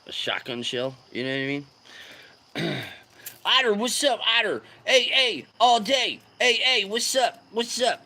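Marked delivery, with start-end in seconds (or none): 3.4-8.0 high, loud chanted hail; excited greeting. Real, not acted. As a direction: greet a newcomer with pitched-up hype. Calling greetings to viewer Otter.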